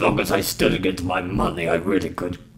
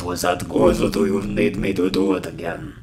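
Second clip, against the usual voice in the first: ordinary talk, nothing marked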